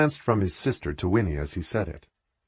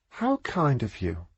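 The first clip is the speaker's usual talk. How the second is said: softer and slow, a smile in the voice; kind, smiling; 4 semitones higher, 4 dB quieter, slower than usual. A narrator's reading. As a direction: gently thank her, smiling. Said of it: "Beatrice said, smiling at her".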